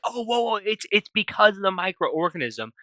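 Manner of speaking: a touch of panic, as Rocky; retold freak-out. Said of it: "Rocky freaks the hell out".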